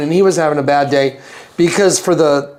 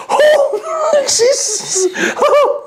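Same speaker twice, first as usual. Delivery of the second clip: high laughing panicked "oh"; panicked cry; much slower than usual. Retold or imitated. She stands right over him on the bus, high panicked laughing cry. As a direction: squeal in fright through laughter.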